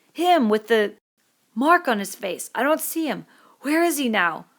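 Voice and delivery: searching the crowd in growing fear; Piggy alarmed. Acted. Piggy asking where the marked boy is, alarmed.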